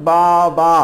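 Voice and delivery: বাবা said as বা and বা with a small break; two-syllable demo. Shown as a demonstration. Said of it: "দুই ভাগে উচ্চারণ করি". (বাবা দুই ভাগে ভেঙে উচ্চারণ)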